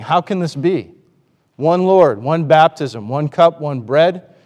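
emphatic appeal, each phrase punched; impassioned, acted-out remonstrance; mock dismay. Voicing Paul's dismay at division.

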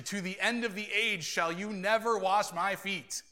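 a touch of aggression, driving through to "feet"; aggressive refusal. Acted. Peter vows Jesus will never wash his feet, mildly aggressive. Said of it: "he's very aggressive about it".

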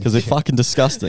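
laughing through the words. Real, not acted. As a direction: chuckle as you say it. Laughs while describing gross posts.

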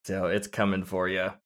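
low, soft, mock-ominous warning; playfully ominous, dropped in volume. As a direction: deliver it quietly like a looming threat. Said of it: "that's very ominous".

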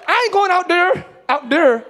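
imitating a daughter's picked-up Jamaican accent; hard D in "there", mock Jamaican. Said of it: "She got a Jamaican accent".

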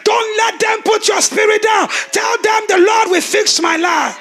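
fiery sermon declaration; full-force preaching. Acted. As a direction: proclaim it over the church with rising force. Rallying the congregation.

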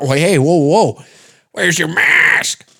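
high, drawn-out cry of alarm; mock alarmed yell. Bystander to a sniffling stranger, mock alarmed yell. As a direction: panic like an outraged bystander. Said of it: "They start yelling things".

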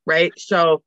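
stuffy blocked nose; talking through a blocked nose; nasal voice. Real, not acted. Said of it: "I'm so sorry about my nose today".

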